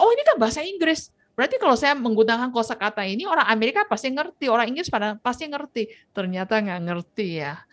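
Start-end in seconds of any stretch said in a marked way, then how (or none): 0.0-5.9 imitating Japanese speaker. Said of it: "orang Jepang tuh merasa".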